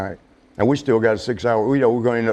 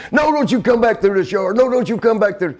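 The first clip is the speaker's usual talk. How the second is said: angry fit; 9 semitones higher than usual. Retold or imitated. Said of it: "He started having another fit".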